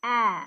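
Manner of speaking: "a" as the short sound in apple; open, short "a", not the letter name; short vowel. Shown as a demonstration. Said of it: "A as in apple".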